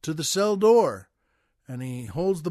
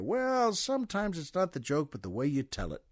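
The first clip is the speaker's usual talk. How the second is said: punchline delivery; 5 dB quieter than usual. Acted. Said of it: "a punchline there".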